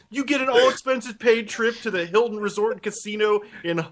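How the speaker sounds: high-pitched mock DJ prize spiel; radio prize announcer. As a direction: reel off the prize like a game-show host. Plays radio host describing the prize.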